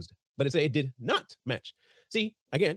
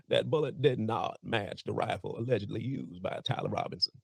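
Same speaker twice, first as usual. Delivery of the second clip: put-on reading voice; 4 semitones lower, 4 dB quieter than usual. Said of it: "let me get my best bill here".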